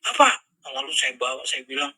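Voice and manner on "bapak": much higher, loud call; child shouting Dad. Retold or imitated. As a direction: yell it like a child calling for father. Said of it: "Jadi dia teriak".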